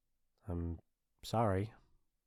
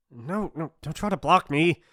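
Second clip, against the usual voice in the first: higher, increasingly loud warning; bossy warning; 6 semitones higher, 6 dB louder than usual. Acted. Bully to someone blocking the way, bossy warning. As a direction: build from no to a firm order.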